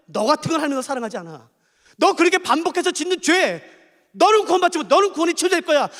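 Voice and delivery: a hint of a condemning tempter; accusing Satan. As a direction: press guilt on him. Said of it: "사단이 계속 노리는 게 뭔지 아세요". (정죄하는 사탄의 목소리)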